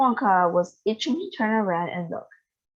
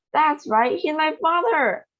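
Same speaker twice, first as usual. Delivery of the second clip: mild wail; 8 semitones higher, 3 dB louder than usual. A narrator's reading. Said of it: "wailed Missus Bucket".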